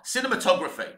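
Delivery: "cinematography" settled on after trying it out; "cinematography" said as the confirmed version; checked pronunciation. Shown as a demonstration. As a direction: land on "cinematography" in one go, falling at the end. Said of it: "that's how you say it".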